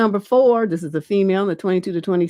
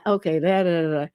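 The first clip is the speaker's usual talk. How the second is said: ordinary talk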